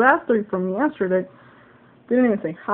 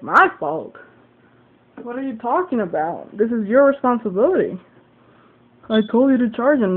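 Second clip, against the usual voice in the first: mildly indignant retort, louder on key words; retold argument; 4 dB louder than usual. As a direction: throw the blame back, reenacting a fight. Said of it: "we started fighting".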